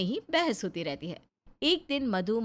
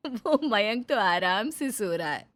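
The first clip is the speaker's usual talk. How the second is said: amused; 3 dB louder than usual. A narrator's reading. Narrator amused at sleeping baby.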